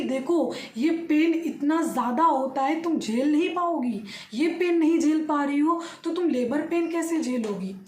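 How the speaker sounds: imitating a doctor's mild telling-off; retold scolding. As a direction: re-enact the doctor berating a patient, without shouting. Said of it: "मेरे ऊपर चिल्लाने लगी वो doctor".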